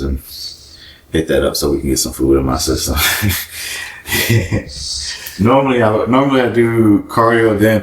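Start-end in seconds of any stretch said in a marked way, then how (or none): 3.0-5.4 soft, breathy chuckle. Real, not acted. Vlogger amused after talking about getting food, soft chuckle. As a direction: laugh quietly to yourself.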